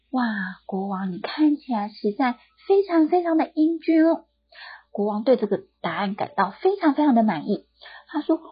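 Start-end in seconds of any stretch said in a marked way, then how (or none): 0.1-4.3 high, gushing flattery to the king; flattering barber. Acted. Barber flattering the king, gushing and high. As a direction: lay the praise on thick.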